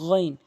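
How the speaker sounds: গইন voiced from the end of the throat; end-of-throat sound. Shown as a demonstration. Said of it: "হলকের শেষ থেকে". (গইন হলকের শেষ থেকে)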